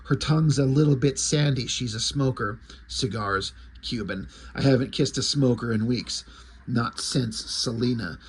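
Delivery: lightly voiced brooding Batman; Frank Miller Batman. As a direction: brood it out like a pulp detective. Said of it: "you got the Frank Miller dialogue".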